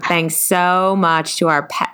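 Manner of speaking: slow, faltering Southern drawl; badly faked Southern twang; Southern accent. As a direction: try a stretched Southern thank-you. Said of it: "Maybe a Southern accent this time".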